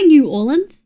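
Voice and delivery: "New Orleans" fully sounded out, word by word; said as spelled. Shown as a demonstration. Non-native streamer insisting, "New Orleans" said as spelled. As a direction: pronounce "New Orleans" just as written. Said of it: "I'm gonna say it how it's spelled".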